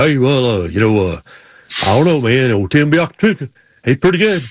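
lightly imitated mumbling racer; halting, mumbled race-driver pick, lightly mimicked; Sterling Marlin. Racer giving his football pick, lightly mimicked mumble. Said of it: "Sterling Marlin at the racetrack do his pick".

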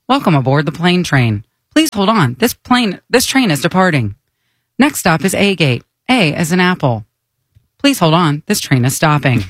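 monotone automated announcement; flat recorded train voice; monotone train announcer. Acted. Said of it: "She's so monotone".

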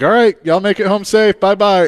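chirpy send-off; friendly fan voice. Retold or imitated. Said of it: "this one guy was like".

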